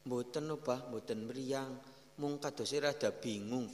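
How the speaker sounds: wife's reply. Retold or imitated. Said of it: "istrinya malah bilang".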